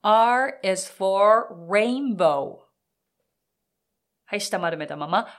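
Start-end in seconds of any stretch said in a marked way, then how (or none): 0.0-2.6 rainbow with the tongue curled back, slow and drawn out; rolled-tongue R. Shown as a demonstration. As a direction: curl the tongue and stretch the R of rainbow. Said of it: "舌を丸めることだけ意識してください".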